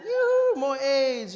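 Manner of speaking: very high, loud yoo-hoo; cheeky high call for another helping; gleeful call. Acted. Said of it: "you're like".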